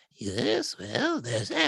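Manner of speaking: put-on elderly woman voice, pitched very high. Playing a game character who answers another player, in an old lady voice. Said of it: "that's an old lady voice".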